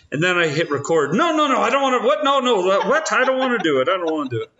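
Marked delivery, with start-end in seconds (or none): 1.1-3.1 panicked wife impression. Husband mimics wife's panicked refusal. 3.1-3.9 high, hammed-up whiny refusal; panicked refusal. Mimicked refusal, then repeated plainly.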